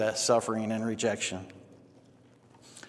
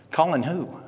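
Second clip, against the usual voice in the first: higher-pitched retold puzzlement; puzzled question; 5 semitones higher than usual. Man asking pastor about an unknown name, puzzled.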